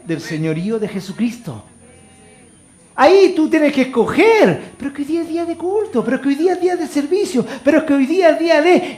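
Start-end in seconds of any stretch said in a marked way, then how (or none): 4.8-9.0 high, fast mocking whine of an excuse-maker; whiny excuse voice. Pastor mocking members who skip church, high whiny voice. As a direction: parody a lazy churchgoer making excuses, pitched up.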